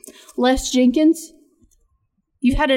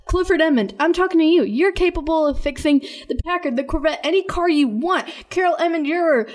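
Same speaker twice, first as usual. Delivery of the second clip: higher, fired-up preaching to named listeners; preacher; 5 semitones higher than usual. Real, not acted. Podcaster preaching encouragement to her listeners, fired up. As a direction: lift them up like a pastor. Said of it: "I feel like a preacher right now".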